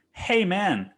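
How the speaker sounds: high-pitched re-enacted callout; mock-outraged complaint, pitched well up; indignant confrontation. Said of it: "And I said it like that".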